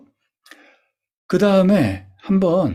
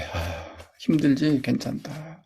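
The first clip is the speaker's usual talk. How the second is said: soft, fading reassurance to yourself; quiet self-comfort; 3 semitones lower, 7 dB quieter, slower than usual. Shown as a demonstration. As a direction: hug yourself and say it gently. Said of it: "안아줬으니까 어떻게?". (스스로를 안아주며 조용히 다독이듯)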